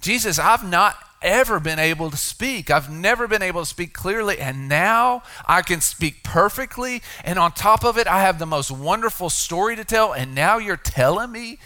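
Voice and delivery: the healed man protesting his silence, high and loud; healed man's protest. Retold or imitated.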